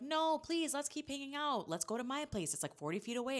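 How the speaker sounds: high, pleading mock whine; whiny begging. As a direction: beg like a clingy friend who won't let you leave. Steven begging Wrigley to stay.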